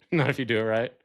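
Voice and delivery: fast repeat through a laugh; laughing echo. Real, not acted. Friend laughing as he repeats the vodka line. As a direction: laugh it back at him quickly. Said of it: "laughs, repeats line".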